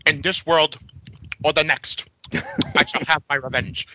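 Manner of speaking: muttered Gladiator line from The Sopranos; Ralph Cifaretto impression. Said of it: "it's Ralph Cifaretto".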